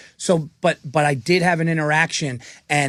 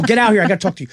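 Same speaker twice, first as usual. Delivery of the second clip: urgent call; 3 semitones higher, much faster than usual. Retold or imitated.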